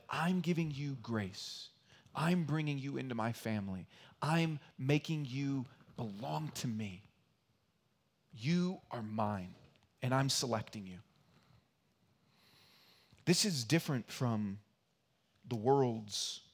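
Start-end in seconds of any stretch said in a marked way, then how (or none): 0.1-11.0 tender voice of God. Acted. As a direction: speak God's promise tenderly. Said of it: "That God said".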